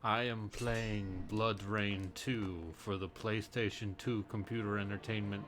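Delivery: slow, drawn-out Transylvanian vampire accent. Shown as a demonstration. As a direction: Transylvanian count voice, taking his time. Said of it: "a Transylvanian accent would be like".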